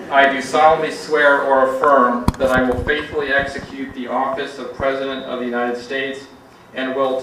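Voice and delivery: loud, ringing oath recital; declaimed like a swearing-in ceremony; solemn oath. Acted. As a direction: proclaim the oath to the room. Oath read aloud to audience.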